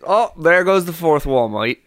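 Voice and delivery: half-committed British, laughing; attempted British accent. Co-host struggling to stay in character, shaky British accent. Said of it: "I can do a British".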